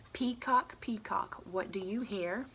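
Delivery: sing-song call to the leopard; reading to children. Acted. Teacher reading aloud to kids, sing-song. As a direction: chant it to the little listeners.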